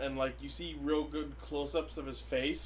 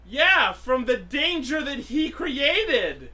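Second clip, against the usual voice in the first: sarcastic; 8 semitones higher, 8 dB louder, much slower than usual. Real, not acted. Sarcastic retort.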